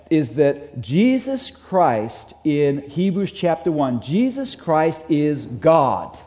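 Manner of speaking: slow, weighty declaration; slow emphasis. Shown as a demonstration. Preacher stressing to his congregation, slow and weighty. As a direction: lay each word down slowly. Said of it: "he's emphasizing over and over".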